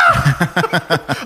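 loud burst imitating a cackle; mock laughing yelp. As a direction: imitate a teacher cracking up. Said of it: "laughing her ass off".

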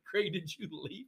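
mock crying. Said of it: "you just look like you're crying".

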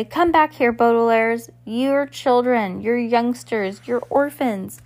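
loud, drawn-out summons; calling after someone. A narrator's reading. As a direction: call them back, stretching out the words. Poe calls after departing children.

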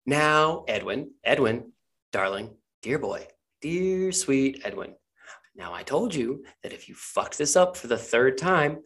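lightly voiced patronizing boss; coaxing, menacing character. Game master plays character scolding Edwin.

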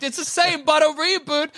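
mock studio exec. Mocking studio execs, high.

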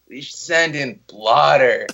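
slow, low lazy stoner drawl; slow stoner voice suggesting they send in blotter. Retold or imitated. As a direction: stretch it out, totally baked. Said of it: "our high guy impression".

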